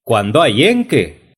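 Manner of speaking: "en qué" dicho ÉN-que; acento en EN. Acted. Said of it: "pongan el acento en la primera E". ("en qué" con la primera E tónica)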